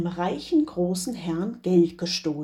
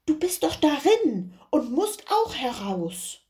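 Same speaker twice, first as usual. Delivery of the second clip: Doktor; 6 semitones higher than usual. Acted. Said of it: "sprach er".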